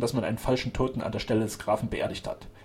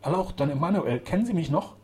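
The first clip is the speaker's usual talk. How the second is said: higher-pitched, moved appeal; deeply moved; 6 semitones higher, 3 dB louder than usual. A narrator's reading. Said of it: "fragte unter tiefer Bewegung".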